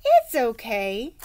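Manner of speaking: put-on slow gentle comfort from the boy; boy consoles his crying sister, slow; consoling. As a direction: soothe your little sister. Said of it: "he consoled".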